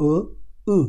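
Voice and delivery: ও as ö, then উ as ü, back to back; ö–ü drill; ö then ü contrast. Shown as a demonstration. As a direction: alternate ও and উ as umlaut sounds. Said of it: "তার মানে".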